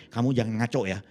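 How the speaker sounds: low-pitched mock warning from a wife; wife's warning. Wife telling husband not to act up, low warning. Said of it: "istri saya cuma bilang nih".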